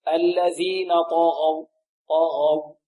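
slow, drawn-out طغوا with heavy ط and غ; correct heavy طغوا. Shown as a demonstration. Teacher models the verse for students, slow heavy طغوا. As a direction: keep ط and غ full in طغوا, lips unrounded. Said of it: "ما زال التفخيم".

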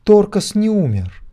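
very high, loud urgent cry; shout. A narrator's reading. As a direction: shout the news before he leaves. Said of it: "кричала она". (громкий крик)

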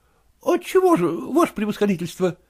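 высокий голос жалобного молодого просителя; жалуется генералу на тяжёлую жизнь; голос Куцина. Acted. Kutsin voiced. (молодой проситель Куцин жалуется генералу, голос выше)

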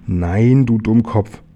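mock-impatient correction, pushed a little; exasperated correction. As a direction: scold a friend for misreading. Bear corrects tiger's misreading.

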